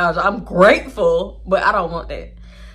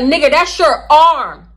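loud, high, slow confrontation; loud slow threatening demand; heated demand; 5 semitones higher, 5 dB louder than usual. Retold or imitated. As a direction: slam each line down. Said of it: "And I was like".

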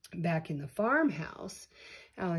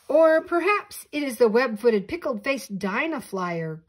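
excited cry; 5 semitones higher, 8 dB louder than usual. A narrator's reading. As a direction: cry it out triumphantly. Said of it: "cried the professor".

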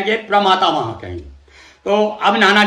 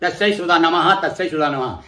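mantra recitation; 3 semitones lower, 3 dB quieter than usual. Shown as a demonstration. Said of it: "तत्सै बोलेंगे संस्कृत के अनुसार".

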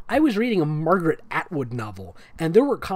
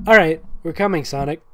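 louder call; 6 dB louder than usual. Acted. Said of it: "let me readjust".

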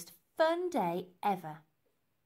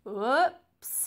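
loud, raised mock-innocent oops; playful, pitched-up whoops; chuckled; 4 semitones higher, 8 dB louder than usual. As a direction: toss it out with amused fake surprise. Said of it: "he chuckled".

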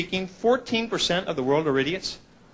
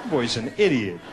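gossiping neighbor; 4 semitones lower than usual. Retold or imitated. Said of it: "neighbors would be out there going".

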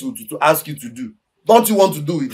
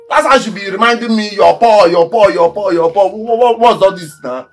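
high, heated, repeating the taunt in outrage; aggrieved rant; 4 semitones higher, 4 dB louder than usual. Acted. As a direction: throw the repeated insult back angrily. Mimics the mother's repeated insult, angrily.

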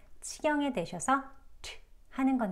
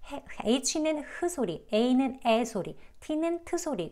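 mistaken sound-by-sound reading; 4 semitones higher, much slower than usual. Shown as a demonstration. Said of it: "많은 분들이 잘못하고 계시는 게".

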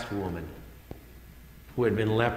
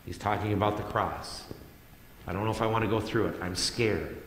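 anxious prayer; 3 dB quieter than usual. Retold or imitated. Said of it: "in anxious anxiety".

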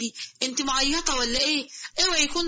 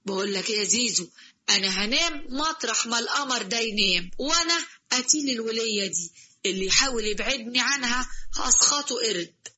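genie declaring love, lower voice; lower, fast lovestruck genie; 4 semitones lower than usual. Acted. Genie tells Zizo he will sleep beside her, lower. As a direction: smitten jinn, quick and low.

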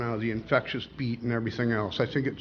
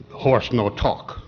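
very slow deadpan reply; slow deadpan joke character; deadpan Indian; 3 dB louder, much slower than usual. Acted. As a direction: drag it out slowly, unmoved. Joke: Indian answers cowboy.

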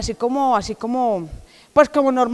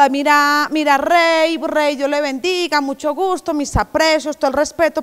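put-on eager polite boy; 3 semitones higher than usual. David greeting the king politely.

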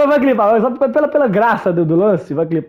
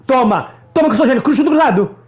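laughing gloat; faster than usual. Real, not acted. Laughing gloat after goal.

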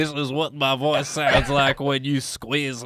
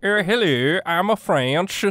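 mock French accent; 5 semitones higher than usual. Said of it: "we're trying to do a Lumiere".

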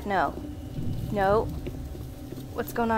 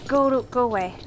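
ordinary delivery

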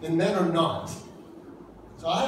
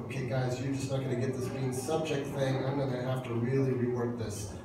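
God to the guys; 6 semitones lower, 8 dB quieter than usual. Retold or imitated. God explaining submission to the guys, patient and softer. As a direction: sigh it out like a patient God giving up on simple rules. God speaking to slow men.

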